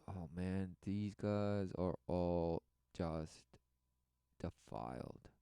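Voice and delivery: low, slow, fading to a murmur; hushed mock disgust. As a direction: let it sink away into disgust. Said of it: "because he knows".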